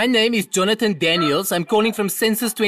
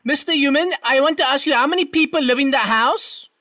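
to someone hard of hearing; 4 semitones higher than usual. Acted. Raised voice for deaf man.

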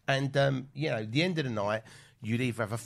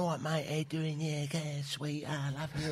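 higher, loved-up raver greeting; 4 semitones higher, 5 dB quieter than usual. Retold or imitated. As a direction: play a blissed-out raver saying hello. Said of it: "the guys are coming up to you going".

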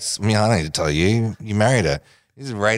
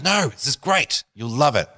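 imitated insistent colleague; 4 semitones higher than usual. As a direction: talk him into it, starting high. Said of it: "She goes".

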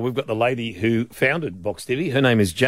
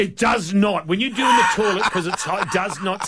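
laughing protest; 6 semitones higher than usual. Real, not acted.

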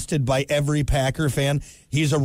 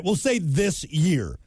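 slow, pressed "this year"; stress on this year; slower than usual. Shown as a demonstration. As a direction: lean on "this year". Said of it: "but this year".

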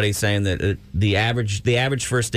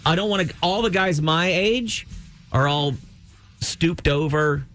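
put-on high, bold rich old woman voice; voicing Jane Fonda; 5 semitones higher, slower than usual. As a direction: brag like a rich diva.

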